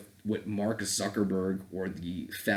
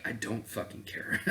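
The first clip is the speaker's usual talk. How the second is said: dismissive whisper; 7 dB quieter than usual. Retold or imitated. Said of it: "and I'm like".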